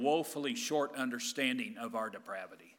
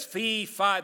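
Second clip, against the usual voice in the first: giant voice; 5 semitones higher, 5 dB louder than usual. Retold or imitated. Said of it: "the giant says".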